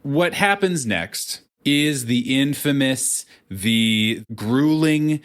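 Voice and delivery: slow, drawn-out mock game-show build-up; dramatic announcer. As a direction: hype the round like a showman. Host dramatically announcing the lightning round.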